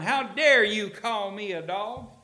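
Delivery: loud, slow, high mock outrage; hammed-up indignation at an insult; indignant retort. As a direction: fling it back, offended. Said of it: "Instead of going".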